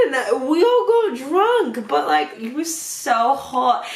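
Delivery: put-on loose, tipsy go at a British accent; drunk British accent. Drunk storyteller declaring love to a sweetheart, attempted British accent. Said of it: "trying to do a British accent drunk".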